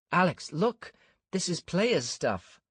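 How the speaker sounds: high, loud, excited cry. A narrator's reading. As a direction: call out in alarm. Ania discovers player bundles.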